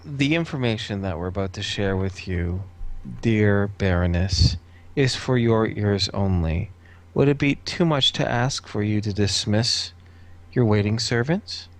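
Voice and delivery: measured, deliberate courtly request; very careful. Acted. Cullimore asks the baroness to dismiss her servants, careful and formal. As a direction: pick each phrase out with care, pausing between. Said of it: "very carefully".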